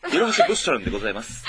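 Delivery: 物産 pronounced with an English flavour; English-style pronunciation. Shown as a demonstration. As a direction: say 物産 as if it were an English word. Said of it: "物産をちょっと英語風に発音するとかね".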